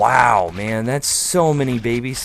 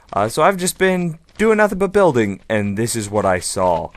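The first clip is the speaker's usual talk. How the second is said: ordinary talk, nothing marked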